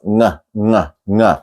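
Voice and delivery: "ng" as n and g in one nasal sound; isolated ng sound. Shown as a demonstration. Teacher drilling the final sound, "ng" as one nasal. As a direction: say "ng" alone, nasal, no hard g. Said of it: "an N and a G at the same time".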